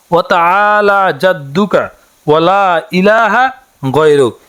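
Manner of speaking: very slow Arabic recitation with long pauses between phrases; slow correct recitation. Shown as a demonstration. Teacher teaching the Sana correctly, slow recitation. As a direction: lay out each phrase slowly for learners. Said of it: "সানাটি হচ্ছে".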